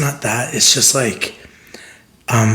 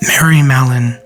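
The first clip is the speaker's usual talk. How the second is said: mock announcer; 4 dB louder than usual. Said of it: "is that good?".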